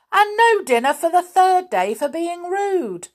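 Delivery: teacher shouting at Binky; angry shout. Acted. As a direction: explode at the rude pupil. Grimm escalates punishment.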